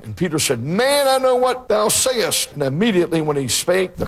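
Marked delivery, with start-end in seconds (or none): 0.6-2.5 much higher, slow, heated denial; Peter's angry denial. Acted. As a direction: stretch it out high like a man cornered. Peter's third denial, acted.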